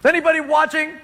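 embarrassed peek. Acted. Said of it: "Naaman embarrassed".

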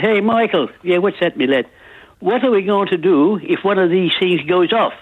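lightly acted Irish banter; Irish accent. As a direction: voice two Irishmen telling a joke. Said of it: "I love the accent".

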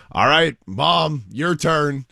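high, slow coaxing call; mock call up to someone on a roof; imitated calling up. Neighbor telling the mother to jump, imitated call.

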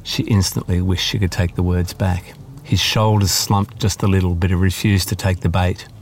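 measured audiobook narration of a novel passage; story reading. Acted. Author reading her climate novel aloud to the interviewer, in steady narration. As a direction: read it like a novelist sharing her own chapter.

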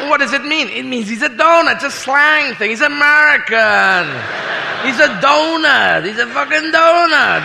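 high-pitched, drawn-out mock explaining; excited crowd. Berliners explain the president's slang to each other, mock excited. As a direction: act an eager onlooker spreading the word. Crowd baffled, then delighted by donut.

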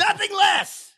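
high, loud booming declaration; theatrical roar; Brian Blessed bellow. Retold or imitated. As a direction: boom it like a stage actor. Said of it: "Channel Brian Blessed".

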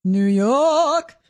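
York drawn out in New York style; New York accent. Shown as a demonstration. Co-host saying New York on request, exaggerated New York accent. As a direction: stretch York long with a New York vowel, dropped r. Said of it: "Say, uh".

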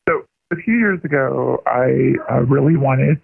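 pitch-shifted disguised phone voice; masked caller through a voice changer. Real, not acted.

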